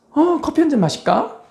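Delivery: high, carefree mock nurse; breezy nurse. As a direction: toss it off like a careless nurse. Careless nurse voiced. (높고 태평한 간호사 흉내)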